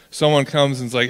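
ordinary talk, nothing marked

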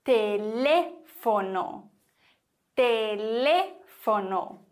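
teléfono slowly, with a long stressed LÉ; stress on second syllable. Shown as a demonstration. Teacher models teléfono for learners, stressing LÉ slowly. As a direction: stretch the LÉ in teléfono, let fono drop. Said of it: "nämlich auf dieser Silbe".

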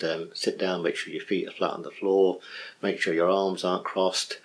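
a lightly soft demo of a meditation induction; guided meditation. Shown as a demonstration. Teacher demos an induction to students, softly guiding. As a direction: ease listeners down, gently guiding. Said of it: "I might say something like".

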